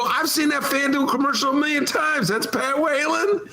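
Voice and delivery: high, astonished realization; amazed. Retold or imitated. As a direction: gasp it out with amazement. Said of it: "And I go".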